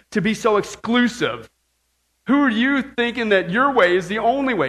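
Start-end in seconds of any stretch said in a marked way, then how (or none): 2.3-4.7 a hint of a scornful accuser; mocking accusers. Preacher mocks critics who call believers exclusive, mildly scornful. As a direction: lightly mimic the sneering critic. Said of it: "they say".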